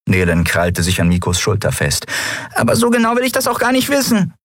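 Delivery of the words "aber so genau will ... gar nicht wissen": distinct character voice. Acted. Figur spricht, eigene Stimme.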